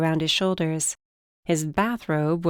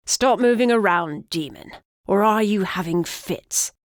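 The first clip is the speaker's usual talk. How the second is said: put-on cranky old man yelling; 3 semitones higher than usual. Old griffin yells at demon.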